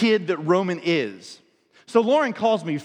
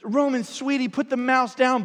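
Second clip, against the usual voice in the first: comforting; 5 semitones higher than usual. Retold or imitated. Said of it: "she tries to comfort him".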